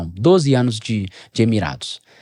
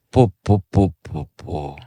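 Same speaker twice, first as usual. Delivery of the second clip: imitated gunshots; 8 semitones lower, slower than usual. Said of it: "ele fez assim, ó, árabe, igual".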